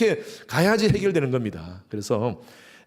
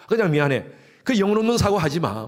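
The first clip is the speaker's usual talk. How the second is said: exasperated scolding; 4 semitones higher, 4 dB louder than usual. Acted. Wife rejecting a hollow apology.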